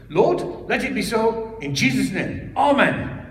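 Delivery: put-on high, loud Malaysian-accented blessing; earnest pastor praying in a Malaysian accent; Malaysian accent prayer. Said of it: "I'm gonna do the accent".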